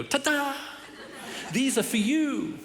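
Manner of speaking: high hammed-up ta-da, then slow; mock ta-da. Husband hamming up a surprise for his wife. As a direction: present the flowers with a showy flourish. Whip the flowers out.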